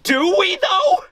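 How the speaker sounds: very high, squeaky mock doubt; sceptical comeback. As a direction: question it in a comically high voice.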